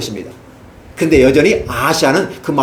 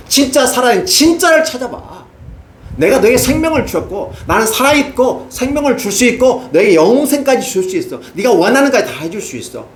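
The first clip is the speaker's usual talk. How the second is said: higher, earnest voice of God; God's offer; 5 semitones higher than usual. Acted. God offering life to the wayward king, earnest. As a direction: urge him toward the living God.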